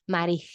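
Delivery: "Mari-" ending in an audible breath of air. Shown as a demonstration. Teacher modelling the breath out, "Mari-" ending on an exhaled H. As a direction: let "Mari-" trail into a breathy H instead of S. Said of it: "breathe out".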